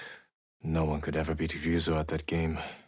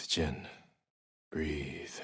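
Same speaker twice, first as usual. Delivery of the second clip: soft; 3 semitones lower, 7 dB quieter than usual. Real, not acted. Calming himself in the bath.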